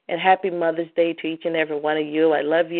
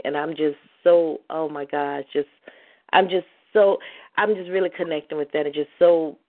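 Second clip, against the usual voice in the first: overwhelmed with emotion. Real, not acted.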